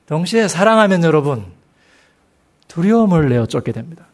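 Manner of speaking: normal talking voice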